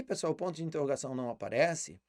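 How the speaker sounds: ordinary talk, nothing marked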